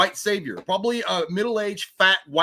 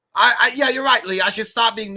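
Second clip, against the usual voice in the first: sarcastic; 6 semitones higher, 5 dB louder than usual. Real, not acted. Sarcastic agreement.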